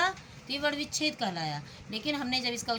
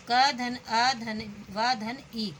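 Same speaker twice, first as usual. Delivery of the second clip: slow spelling out; much slower than usual. Shown as a demonstration. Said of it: "कवि ई".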